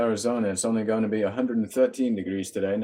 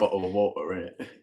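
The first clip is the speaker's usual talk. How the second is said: lightly put-on London accent on "Bottle of water, innit?"; a playful try at a British accent; mock British accent; 2 semitones lower than usual. Shown as a demonstration. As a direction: drop the t in "water" and tack on "innit?" British-style. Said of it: "because of the differences".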